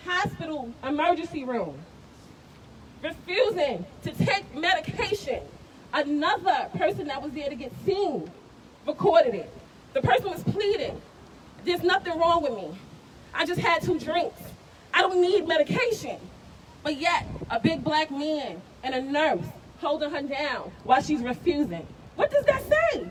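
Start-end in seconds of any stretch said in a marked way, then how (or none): 3.0-21.9 loud, raw, grieving anger; upset and hurt. Real, not acted. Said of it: "I'm upset. I'm hurt". 22.1-23.1 a pained, disbelieving demand; outraged question. Real, not acted. Outraged rhetorical question at rally.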